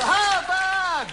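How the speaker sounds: high put-on squeal of a name; high silly voice playing the audience; goofy character voice. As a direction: chirp it up high like a cartoon. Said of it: "You go".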